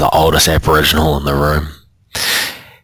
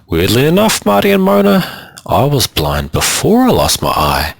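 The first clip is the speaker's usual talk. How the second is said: Hump speaking; 9 semitones higher than usual. A narrator's reading. Hump addresses the group.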